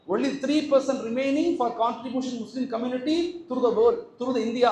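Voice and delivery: very slow, spelled-out English quote; slow quoted reading. Acted. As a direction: read the article line deliberately. Quoting article slowly.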